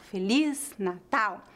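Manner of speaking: slow "Feliz Natal", stressing "liz" and "tal"; last-syllable stress. Shown as a demonstration. Teacher showing the tonic syllable, "Feliz Natal" stressed on each last syllable. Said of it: "a tônica de cada palavra está na última sílaba".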